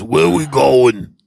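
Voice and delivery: slow put-on voice of a friend; Brian Half. Friend in the car asks him, slow impression. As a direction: stretch the words out, imitating a slow-talking buddy. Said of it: "he talks like this".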